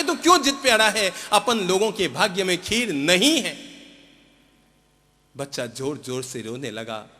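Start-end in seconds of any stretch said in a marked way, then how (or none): 0.0-3.7 scolding. Acted. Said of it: "mummy ने बहुत डांटा".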